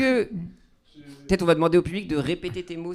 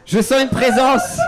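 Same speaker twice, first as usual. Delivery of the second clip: seance medium; 7 semitones higher, 3 dB louder than usual. Pretend. Sketch of a séance.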